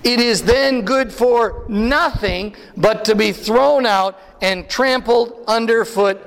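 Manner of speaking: slow, measured scripture reading. Shown as a demonstration. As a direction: read it aloud slowly with the congregation. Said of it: "read with me".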